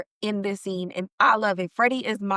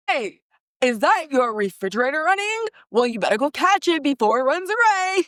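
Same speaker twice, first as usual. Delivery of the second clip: lightly voiced Pennywise, a bit higher; mild creepy clown joke; 4 semitones higher, 3 dB louder than usual. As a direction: tease like a hint of a clown. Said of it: "that same voice".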